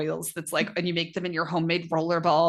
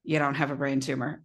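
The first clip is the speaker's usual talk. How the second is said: husband's calm dismissal; 5 semitones lower than usual. Retold or imitated. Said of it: "my husband literally can just go".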